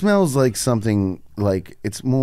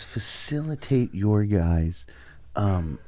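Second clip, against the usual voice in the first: mock cry; 2 semitones lower, 7 dB quieter, slower than usual. Fake sob at being mocked.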